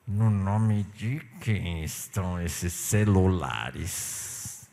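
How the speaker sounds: low, slow, patient asking; calm repeat. Retold or imitated. Pastor asks the clerk again, calm and slow. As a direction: ask again gently, holding back. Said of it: "Aí eu falei pra ela".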